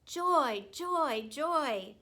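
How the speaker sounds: overjoyed little cry; a hamster thrilled by a treat; joyful. A narrator's reading. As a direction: squeal it high and bright with delight. Hamster delighted by biscuit.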